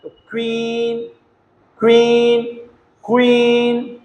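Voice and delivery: क्वीन with a kw onset and long vowel. Shown as a demonstration. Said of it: "तो क्यू यू को करें क्वा".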